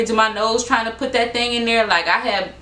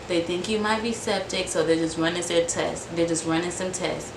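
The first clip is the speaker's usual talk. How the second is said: soft, lowered volume; auntie's soft voice; 3 semitones lower, 6 dB quieter than usual. Retold or imitated. Auntie explaining tests to her scared niece, soft voice. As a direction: keep it down, softly breaking the news. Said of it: "she talking in a soft voice".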